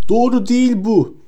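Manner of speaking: high, loud outburst; cry out. A narrator's reading. Harry crying out against Lupin, high and loud. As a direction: fling the denial out. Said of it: "diye haykırdı Harry".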